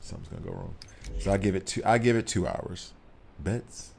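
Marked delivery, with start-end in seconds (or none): 0.0-0.7 "Something's gonna go wrong" breathed out as an ominous whisper. Shown as a demonstration. Streamer warning chat about delay, whispered. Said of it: "repeats prediction whispered".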